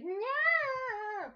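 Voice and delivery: put-on high, loud childish "No!"; stubborn child. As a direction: refuse like a stubborn kid. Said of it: "he's always gonna be like".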